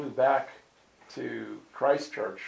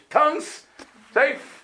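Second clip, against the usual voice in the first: 1 emphatic exclaim; 13 semitones higher, 7 dB louder, much slower than usual. Real, not acted. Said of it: "I start praying in tongues".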